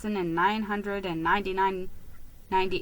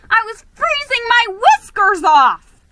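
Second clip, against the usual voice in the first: exclaiming, freezing; 13 semitones higher, 12 dB louder than usual. A narrator's reading. Narrator freezing.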